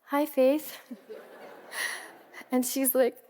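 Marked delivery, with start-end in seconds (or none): 0.0-0.8 embarrassed laugh on a higher hello; sheepish laughing hello. Retold or imitated. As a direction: greet her with a caught-out laugh. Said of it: "I said".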